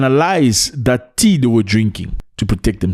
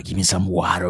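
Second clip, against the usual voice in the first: put-on American accent; 4 semitones lower, 6 dB quieter than usual. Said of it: "tried the American accent".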